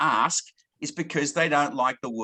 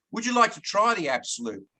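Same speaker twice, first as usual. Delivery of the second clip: demo question; 5 semitones higher than usual. Shown as a demonstration. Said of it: "you say".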